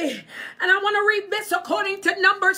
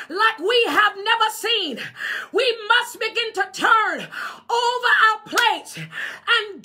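full-force pulpit preaching; fervent preaching. Acted. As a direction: preach it hard to the congregation.

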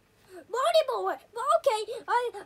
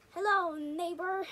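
drawn-out playful hello; slow greeting; 2 semitones lower than usual. Pretend. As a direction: say it slowly like a pun. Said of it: "Get it?".

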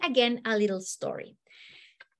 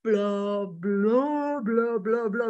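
scolding blurred into monotone babble; droning blah-blah; slower than usual. Retold or imitated. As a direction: drone on like meaningless adult noise. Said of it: "That's what I heard".

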